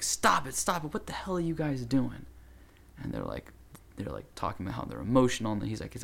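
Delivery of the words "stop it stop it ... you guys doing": stern shout. Retold or imitated. Man breaking up a fight.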